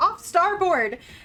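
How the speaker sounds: high, loud shouted call. A narrator voices one of the ship's lookouts calling out, yelling. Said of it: "And one other one yells".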